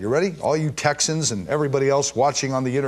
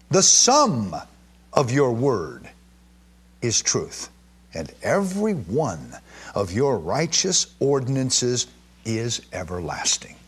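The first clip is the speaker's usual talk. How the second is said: slow, raised solemn reading voice; scripture reading; slower than usual. Acted. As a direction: declaim the psalm slowly. Reads the psalm.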